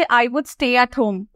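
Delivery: very slow, careful model sentence; slow teaching model. Shown as a demonstration. Teacher modelling a sentence slowly for students. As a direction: read it slowly for learners. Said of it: "বলছে".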